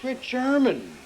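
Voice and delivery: put-on Pennsylvania German accent, "German" said as "Tcherman". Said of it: "friction with our diction".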